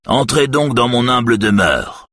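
shrill host's welcome; surprisingly shrill voice. A narrator's reading. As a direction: welcome them in a strident high voice. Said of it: "d'une voix étonnamment stridente".

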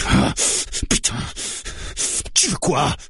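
high, exasperated shout; frantic, angry demand; yelling. A narrator's reading. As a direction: yell the question, at breaking point. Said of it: "hurle le barbu".

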